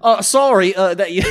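put-on Doctor Phil Australian accent. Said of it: "doing Doctor Phil in an Australian accent".

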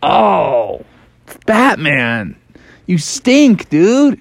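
high, squeaky complaint about the stink; mock disgusted Froggy. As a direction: whine it out like a grossed-out frog. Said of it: "Froggy could hardly handle it".

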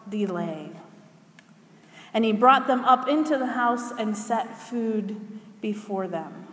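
measured, expressive public Bible reading; Scripture reading. Acted. Reading a story from Acts to the congregation, measured Scripture reading. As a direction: read the passage out with deliberate pauses and weighted phrase endings. Reads a Scripture passage aloud.

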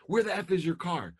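high, loud furious yell; angry yelling dad. Retold or imitated. Dad yells at his missing daughter, high and loud. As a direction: bark it at her like a furious father. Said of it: "imagine if I would have called".

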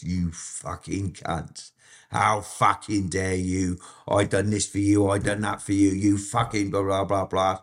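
lightly imitated Cockney, slow drawn-out start. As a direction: retell a Cockney's indignant swearing, stretching the first words. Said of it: "in his Cockney fucking voice".

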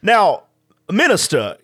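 put-on courtly Southern-accented detective addressing an official; Benoit Blanc Southern accent. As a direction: say it with a measured Southern lilt. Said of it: "just already speak in Benoit Blanc".

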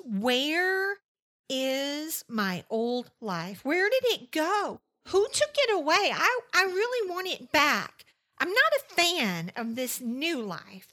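voicing listeners' distress. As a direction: cry out the loss like the people who wrote in. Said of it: "You're telling me these things".

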